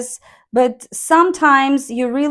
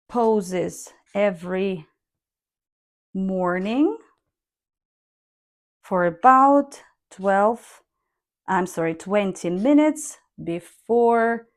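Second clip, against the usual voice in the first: slow read with long pauses, rising on "yoga" and "morning"; deliberate intonation demo; intoned reading. Shown as a demonstration. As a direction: pause between phrases, falling on "meditation". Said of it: "I intoned the example".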